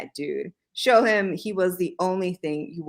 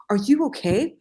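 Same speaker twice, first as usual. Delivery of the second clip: whisper; 6 semitones higher than usual. Acted. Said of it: "deep voice, but he has a lisp".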